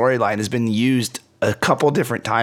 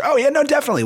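overeager high reply; much faster than usual. Pretend. Voicing eager Turtles.

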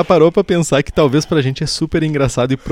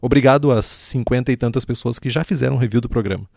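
podcast outro read. Acted. Reads sponsor and outro script.

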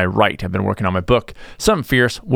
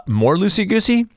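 mock listener; 10 semitones higher than usual. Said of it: "you might be saying to yourself".

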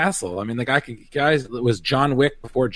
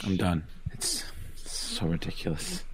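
softer, breathy, giving up; exasperated; 7 semitones lower, 11 dB quieter than usual. Real, not acted. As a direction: give up in disbelief. Reacting to Boomerang roommate news.

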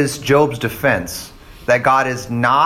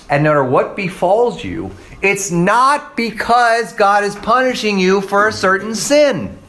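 ordinary talk

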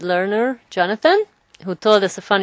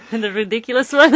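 laughing; 6 semitones higher, 5 dB louder, faster than usual. Real, not acted. Laughing recall of funny song.

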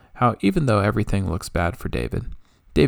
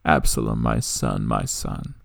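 narrated loud cry; 9 semitones lower, slower than usual. A narrator's reading. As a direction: cry out briefly, then sink into mourning. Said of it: "he cried loudly".

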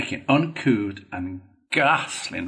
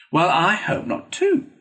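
brisk and hearty, pitched higher and a bit louder; a bluff, cheery reply; hearty friend jollying a sulking patient; 8 semitones higher, 4 dB louder than usual. A narrator's reading. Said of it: "said the rat heartily".

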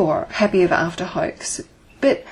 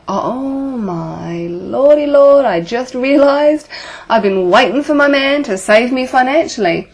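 mock shocked realisation; 4 semitones higher, 5 dB louder than usual. Woman on the call realising she waits to be saved, mock shocked wail. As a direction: play a woman suddenly seeing her own pattern, overdone. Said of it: "might be sitting there going".

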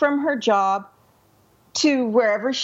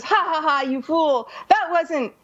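mocking laugh, then a lightly gloating sneer; gloating mockery; 4 semitones higher than usual. Rich man mocking the poor woman, lightly gloating. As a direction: rub it in with a smug laugh. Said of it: "he laughs at her and he says".

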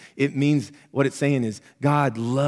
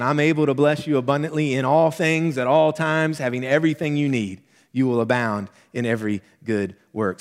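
voice of God; 2 semitones higher, 4 dB louder than usual. Acted. God promising believers abundance, louder proclamation. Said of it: "Because God's saying".

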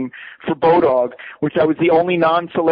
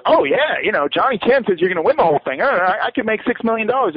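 higher, eager retelling of a friend's delight; mock the friend's greedy glee, pitched up; imitating excited friend; 5 semitones higher than usual. Greedy friend hopes for millions.

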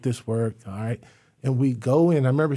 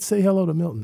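mocking repeat; 6 semitones higher, faster than usual. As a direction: throw her own words back at her. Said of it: "I said".

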